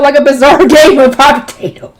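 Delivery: words broken by real laughter; laughing while reading. Real, not acted. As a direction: read on through the giggles.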